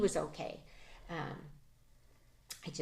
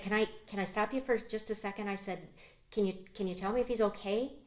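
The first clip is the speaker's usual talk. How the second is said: higher, rushed, fast and frantic; anxious plea; 5 semitones higher than usual. Retold or imitated. Mother begging the sheriff to say if her son is okay, fast and anxious. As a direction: cut him off, desperate to know.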